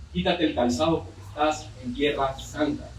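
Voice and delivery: a hint of divine authority; hard, authoritative voice. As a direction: lightly voice a stern, authoritative God. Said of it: "dura, una voz con mucha autoridad".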